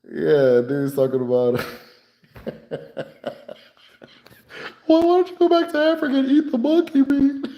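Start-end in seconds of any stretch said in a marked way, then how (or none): 4.9-7.5 high sneering insult; imitating the patient's insult once more. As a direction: toss it out high and mocking. Patient insult retold again.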